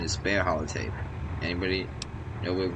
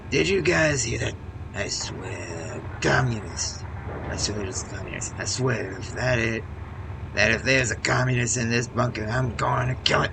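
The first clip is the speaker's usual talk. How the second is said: loud, high angry robot yelling; loud mock robot fury; paranoid robot threat; 5 semitones higher, 5 dB louder than usual. Nikolai robot shouting about communists.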